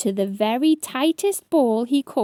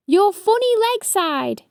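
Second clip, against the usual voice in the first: higher, louder impatient shout; 10 semitones higher, 4 dB louder than usual. A narrator's reading. Ladybird losing patience with hedgehog, shout. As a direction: snap out the answer, no politeness. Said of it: "shouted Stripey".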